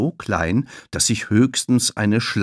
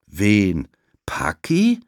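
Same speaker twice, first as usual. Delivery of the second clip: innocent; 4 dB louder, much slower than usual. Acted. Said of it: "macht ein ganz unschuldiges Gesicht".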